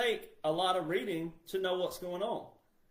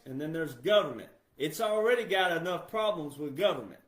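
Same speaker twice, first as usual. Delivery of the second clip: louder and higher impassioned rant; fired-up preaching; 4 semitones higher, 4 dB louder than usual. Acted. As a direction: preach it hard to the people.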